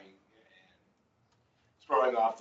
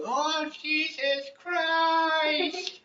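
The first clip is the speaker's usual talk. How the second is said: mock crying; much slower than usual. A narrator's reading.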